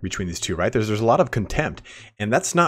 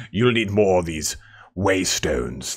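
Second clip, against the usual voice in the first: quoting the elf voice; slower than usual. Retold or imitated. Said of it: "I love their voice acting".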